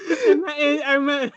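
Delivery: high, squeaky laughing attempt to speak; helpless laughter. Real, not acted. Speaker correcting a name slip, helplessly laughing. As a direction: choke out words through real laughter. Cracking up over wrong name.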